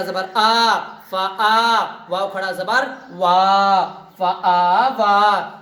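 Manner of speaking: slow recitation. Shown as a demonstration. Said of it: "سمجھ میں آ رہا نا؟".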